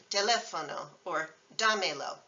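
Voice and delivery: teléfono on LÉ, dámelo on DÁ; third-from-end stress. Shown as a demonstration. Teacher giving exceptions, third-from-end stress. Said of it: "three syllables from the end".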